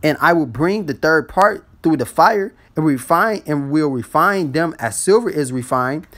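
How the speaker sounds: slow, emphatic Bible reading; measured scripture recital with drawn-out phrases. Acted. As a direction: read the verse out slowly and deliberately. Reads scripture aloud to listeners.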